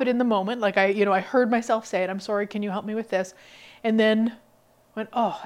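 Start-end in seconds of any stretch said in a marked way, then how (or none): 2.1-3.3 quick, hurried apologetic request; apologetic ask. Retold or imitated. Retelling how she asked medical staff, hurried and apologetic. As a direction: rush it out, sorry for asking. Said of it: "I don't need to be sorry".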